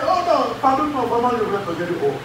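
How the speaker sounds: a touch of a begging woman, voice dropping away; pleading apology. Retold or imitated. Pastor imitates a woman apologizing, softly pleading. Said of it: "Elle dit".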